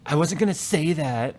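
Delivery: slow, put-upon mock teen comeback; sulky kid brushing off her dad; teenage retort. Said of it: "total teenager response".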